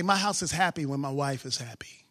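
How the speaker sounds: breathy low whisper of a private joke. Shown as a demonstration. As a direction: say it in a secret whisper. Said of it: "I say".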